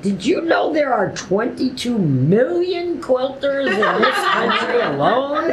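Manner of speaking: amused, excited retelling of his question; eager. Retold or imitated. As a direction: share the fact like a thrilled discovery. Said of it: "He's like".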